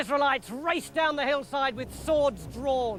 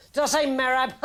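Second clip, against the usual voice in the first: nervous laugh; 3 semitones higher, 3 dB louder, faster than usual. Acted. Saul laughs off mistake.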